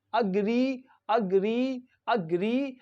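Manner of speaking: "agree" as uh-GREE, short schwa first; demonstrating pronunciation. Shown as a demonstration. Teacher shows first syllables of agreement, careful pronunciation. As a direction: model "agree" carefully with a long ee. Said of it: "it is pronounced same".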